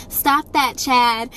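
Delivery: a limp request, not a command; mock weak parent. Parents scolding Chad without firmness, mock weak scold. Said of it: "We'll call him Chad".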